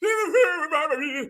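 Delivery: mimicked growly gibberish; mock growl. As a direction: growl nonsense like an angry old man. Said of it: "He out there growling, y'all".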